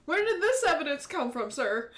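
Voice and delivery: demanding. Acted. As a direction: press the chief hard.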